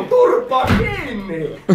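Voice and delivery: slow, drawn-out mock command; slow parody of a shouted order; mock drill yell. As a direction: bark it like an army sergeant, slowly. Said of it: "Huutaa ja kiroilee".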